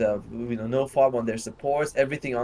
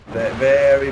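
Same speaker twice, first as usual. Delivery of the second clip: stuttering; 8 dB louder than usual. Real, not acted. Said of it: "I don't know why I'm stuttering".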